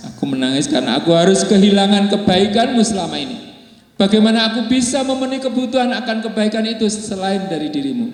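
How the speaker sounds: high, tearful plea of a wife; a wife's voice near tears; sobbing wife. Acted. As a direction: speak as a wife choking on sobs. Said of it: "dengan sesenggukan dan air hangat bening berjatuhan".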